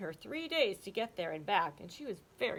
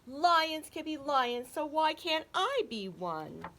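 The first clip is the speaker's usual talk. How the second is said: wailing; 7 semitones higher, 4 dB louder than usual. Acted. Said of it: "he wailed".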